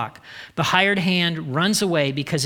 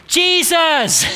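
much higher, loud burst of the name; emphatic exclamation; 10 semitones higher, 5 dB louder than usual. Real, not acted. Preacher answering where bad voices don't come from, loud and high. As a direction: fire the answer out with a grin. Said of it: "exclaims answer".

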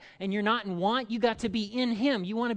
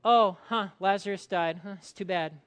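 mock indifference. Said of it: "Jesus doesn't just do the".

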